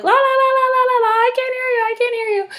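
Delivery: high-pitched singsong, drowning someone out; mock-childish high monotone la-la-la; mocking childish refusal. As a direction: chant it like a kid plugging their ears. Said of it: "put your fingers in your ears and you're like".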